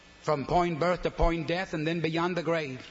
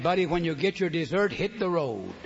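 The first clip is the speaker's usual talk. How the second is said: curt dismissal. Retold or imitated. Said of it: "It meant".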